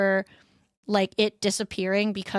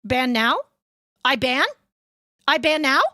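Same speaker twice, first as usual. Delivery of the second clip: eager puppy asking to ban; a touch of eager puppy; puppy-like mod voice; 3 semitones higher, 4 dB louder than usual. Retold or imitated. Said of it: "poor puppy is like".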